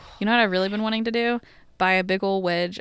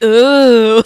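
delighted ooh; 14 dB louder than usual. Retold or imitated. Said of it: "I'm like".

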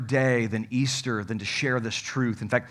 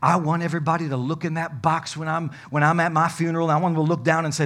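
punchline; 6 dB louder than usual. Retold or imitated. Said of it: "he says".

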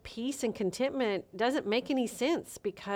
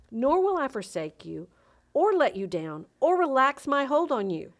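building to emphatic; 3 semitones higher, 4 dB louder than usual. Real, not acted. Podcast host reading the verse to listeners, building to a ringing declaration. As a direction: let the promise swell until it rings out.

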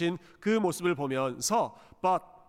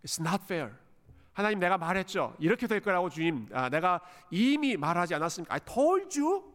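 Jonah's acted complaint, rising at the end; protesting to God. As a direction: argue your case with God, drawing out the English. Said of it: "하나님께 항의하면서, 따지면서 기도하는". (하나님께 항의하며 따지는 투)

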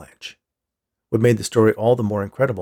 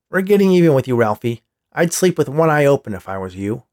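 bully's threat; 6 dB louder than usual. Acted. Bully threatens Ralph at lunch.

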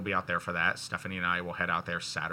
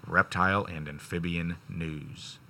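announcer voice. Shown as a demonstration. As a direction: drag it out like a ring announcer. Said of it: "One more".

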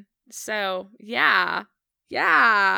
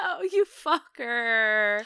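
laughing; 10 semitones higher, 7 dB louder, slower than usual. Real, not acted. Host teased with hard scene.

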